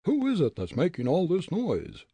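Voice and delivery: high, loud demand; captain's shout. Acted. Smuggler captain demanding answers, shouting. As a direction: bellow into the dark.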